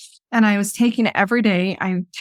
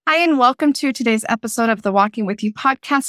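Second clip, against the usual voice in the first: podcast intro. Shown as a demonstration. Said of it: "Let me try that again".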